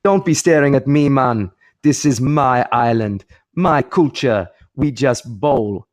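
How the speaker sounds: put-on West Indian accent, emphatic; Viv Richards. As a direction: scold in a mock Caribbean voice. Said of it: "Viv Richards re-, returns to him and says".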